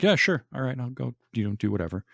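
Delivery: offhand yeah sure, then trailing off; lazy indifferent mimic of Henry; careless shrug. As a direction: brush it off like you don't care. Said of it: "He's like".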